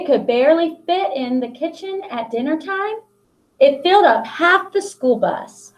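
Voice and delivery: put-on reading a picture book aloud to children; expressive picture-book read-aloud; storybook narration. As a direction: tell the story to the class with long pauses.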